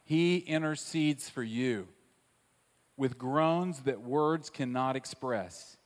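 slowed down, each word weighted; slow, weighty preacher's repeat; slow emphatic repeat. Shown as a demonstration. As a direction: lean on HE and drag it out. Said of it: "Can I say that one more time".

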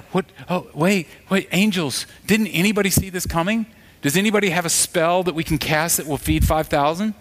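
hammed-up startled fluster; mock alarm. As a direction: act badly caught off guard. Mock God caught off guard.

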